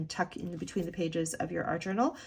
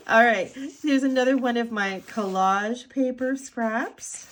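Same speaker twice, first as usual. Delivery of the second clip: bouncy lilting tour-guide voice, pitched higher; sing-song voice; 4 semitones higher, 4 dB louder than usual. Real, not acted. Vlogger cheerfully showing viewers her collage paper scraps, sing-song. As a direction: lilt it up like a cheery show-and-tell. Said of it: "talking in the sing-song voice today".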